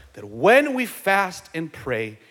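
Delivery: slow, with weight on "when"; deliberate statement led by "when"; stress on when. Real, not acted. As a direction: lean on "when" and stretch the line out. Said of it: "emphasis on when".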